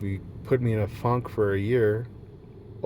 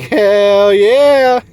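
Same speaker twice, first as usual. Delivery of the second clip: high, loud triumphant whoop; defiant hell yeah; 9 semitones higher, 12 dB louder than usual. Retold or imitated. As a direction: shout it proud like you mean it. Cheerful reply to mockers.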